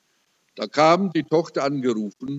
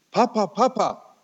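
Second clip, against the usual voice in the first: higher-pitched excited calling; excited retelling; 6 semitones higher than usual. Retold or imitated. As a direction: imitate a wife urgently calling her husband. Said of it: "sagt sie ganz aufgeregt".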